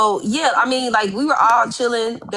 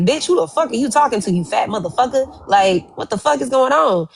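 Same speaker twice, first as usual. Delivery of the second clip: mock angry yell; 6 semitones higher than usual. Quoting Brookie's blackout rage.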